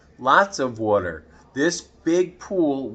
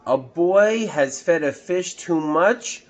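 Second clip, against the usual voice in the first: higher, louder disbelieving question; surprised fireman; 6 semitones higher, 4 dB louder than usual. Acted. Fireman on the radio, surprised question. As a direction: ask it in disbelief.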